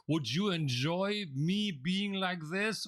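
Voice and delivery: listless demo. Shown as a demonstration. Trainer mocking a bored presenter for the class, slow and listless. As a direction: show them how dull a disengaged presenter sounds. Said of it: "imagine if I were to present myself like this".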